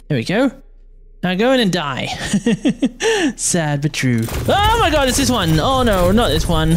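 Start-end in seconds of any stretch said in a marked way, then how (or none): 4.5-6.8 high dismayed cry of recognition; surprised. Real, not acted. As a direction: groan in shock at the boss. Boss appears again, dismay.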